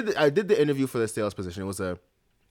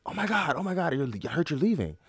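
high-pitched imitation of a flustered director; lightly mimicked dismay; mock fluster; 6 semitones higher than usual. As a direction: act out a breathless "oh my God" reaction, pitched up. Director rushes down on hearing news.

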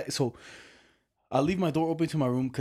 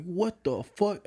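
drawn-out disbelief; 6 semitones higher, much slower than usual. Retold or imitated. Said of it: "I was like".

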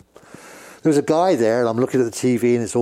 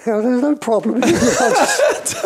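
nervous laugh; 13 semitones higher, 4 dB louder than usual. Retold or imitated. Nervous retold reply to hostile guys.

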